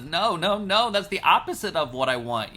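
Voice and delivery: loud, high frustrated objection; exasperated protest. Retold or imitated. Balak shouting at Bilam for blessing instead of cursing. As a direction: stop him mid-blessing, fed up.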